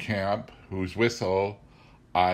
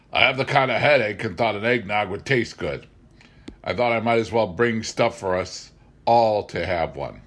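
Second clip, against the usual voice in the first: a hint of a hungover logger, louder; lightly voiced Tom; 4 dB louder than usual. Tom explaining his hangover eggnog to Betty, lightly voiced. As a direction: explain the headache sheepishly.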